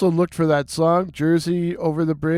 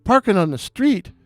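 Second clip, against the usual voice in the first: put-on high, excited Irish accent, ranting; an Irish barman venting about his day on the phone; Irish bartender impression; 4 semitones higher than usual. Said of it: "beautiful restful Irish voice".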